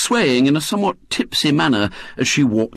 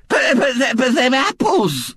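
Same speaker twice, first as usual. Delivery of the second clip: higher, stumbling outraged stammer; spluttering; 11 semitones higher than usual. Acted. Mrs Bott protests about the apples, spluttering. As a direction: choke on the words. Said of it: "spluttered Missus Bott".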